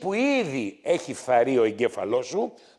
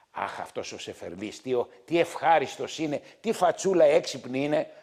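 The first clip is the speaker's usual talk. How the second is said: mock doting lady; 2 semitones lower, 4 dB quieter than usual. Doctor imitating a lady fan.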